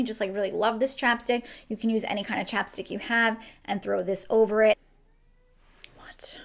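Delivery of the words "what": sudden very high, soft startled squeak; startled what. Real, not acted. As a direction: jump up into a squeak. Reacting to cat suddenly.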